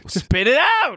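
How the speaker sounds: sudden high-pitched yell; impatient shout. Real, not acted. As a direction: cut in loudly, demanding the word. Impatient with friend groping for word.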